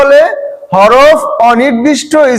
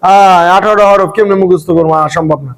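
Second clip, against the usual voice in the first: mock panic; 6 semitones lower than usual. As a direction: playfully mimic the class losing heart. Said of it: "প্রথমে শুনে তো ঘাবড়াই গেছো". (ঘাবড়ে যাওয়া ছাত্রের নকল)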